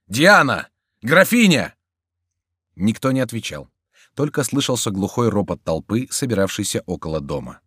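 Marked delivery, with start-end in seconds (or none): 0.1-1.7 high loud calls; calling out. A narrator's reading. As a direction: shout names through the house. Calling into an empty house.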